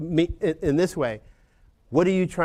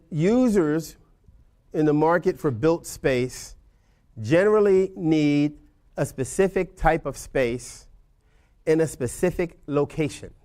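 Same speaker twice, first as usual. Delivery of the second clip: slow deliberate emphasis; slower than usual. Shown as a demonstration. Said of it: "Why did I say it like that?".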